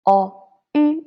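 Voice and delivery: yu said high with rounded lips; pinyin yu. Shown as a demonstration. Teacher shows the vowel for learners, high and rounded. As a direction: model yu clearly for the class. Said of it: "So here".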